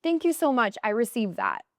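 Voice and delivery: high, mock gracious thank you. She now accepts compliments, high gracious mock voice. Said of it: "I would be like".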